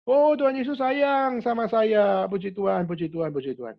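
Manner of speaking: put-on beam it out like a happy child; joyful child's reply.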